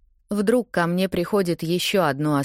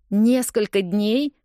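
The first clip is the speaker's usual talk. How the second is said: higher, slower, rising in disbelief; confused echo; 6 semitones higher, slower than usual. A narrator's reading. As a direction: repeat it as if you can't believe it. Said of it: "повторяю я в растерянности".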